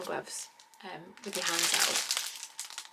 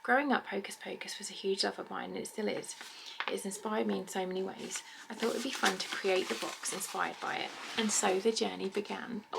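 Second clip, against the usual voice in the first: reading a card. Real, not acted. Reads card from box creator.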